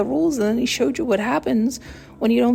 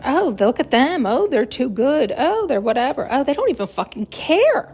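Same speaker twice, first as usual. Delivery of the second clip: mock gossip; 4 semitones higher than usual. Voicing gossipers.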